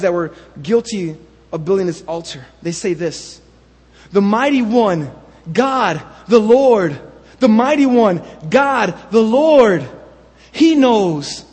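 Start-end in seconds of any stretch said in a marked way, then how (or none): 4.1-11.4 anxious cry. Retold or imitated. Tribes' anxious cry to God.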